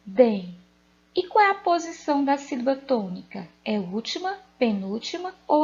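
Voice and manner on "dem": "Dem" alone, loud and firm; stressed syllable demo. Shown as a demonstration. Teacher answering which syllable of dente is tonic, "Dem" firmly stressed. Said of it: "Qual é a sílaba tônica dessa palavra?".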